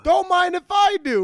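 high, hammed-up leering line; mock sleazy flirt. Co-host echoing Mario's line, high and hammed-up. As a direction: ham up the creepy come-on.

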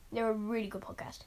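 hushed whispered aside. Real, not acted. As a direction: whisper it like a secret. Aside after recommendation.

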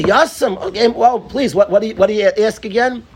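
mock flustered eagerness; eager, flustered welcome. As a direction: rush to say yes. Eager reply on hearing orphan.

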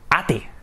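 ATE read the Spanish way, "AH-teh"; spelling pronunciation. Shown as a demonstration. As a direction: sound out both vowels in ATE as written. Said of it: "se escribe totalmente diferente".

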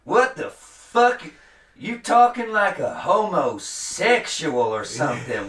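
high, slow, outraged yell at the start; hammed-up shocked barmaid, drawn out; mock redneck barmaid. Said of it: "she'd be like".

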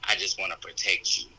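protective, hushed reassurance; a hint of a worried mother; tender mother. Mother voiced in coming-out story.

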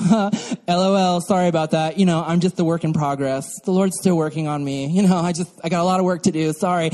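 mock offhand sorry; breezy non-apology, lightly imitated; insincere apology. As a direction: toss off the excuse without meaning it. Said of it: "they don't give real apologies".

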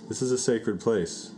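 aggressive. Acted. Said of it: "why I'm being so aggressive".

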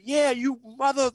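high yelled taunt; retold scream. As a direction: yell it from the background. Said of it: "Lonzo in the back screaming".

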